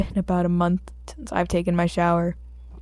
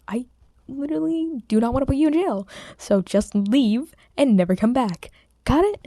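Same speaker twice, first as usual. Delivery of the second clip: mock fed-up detective; 5 semitones higher than usual. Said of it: "He's just like".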